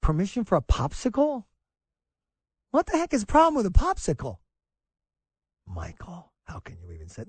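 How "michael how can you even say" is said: mock scolding parent.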